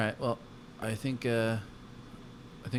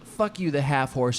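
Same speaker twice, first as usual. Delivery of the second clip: raised-pitch comeback; acted angry insult; 4 semitones higher, slower than usual. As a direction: hurl an insult back in mock anger. Acted quarrel, insult back.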